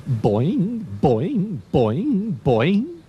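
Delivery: playful rising boing noises; bouncy boings. Pretend. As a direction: bounce up the pitch like a hopping kangaroo. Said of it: "Kangaroos bounce all over the place".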